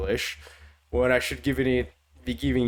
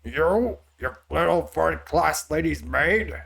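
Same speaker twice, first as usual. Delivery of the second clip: put-on higher, accusing line in an R-heavy accent; attempted Heavy voice; 3 semitones higher than usual. Reader settling on a Heavy voice for the accuser, R-intensive accent. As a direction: have a go at Heavy's accent, indignant. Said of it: "I'm just gonna go with a".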